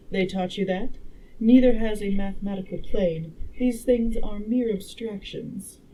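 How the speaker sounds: lightly voiced, emphatic woman lecturer; a hint of a learned lady, punching key words; time traveler as a girl. Time traveler instructing the dinner guests, lightly voiced clever girl. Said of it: "make the time traveler a girl".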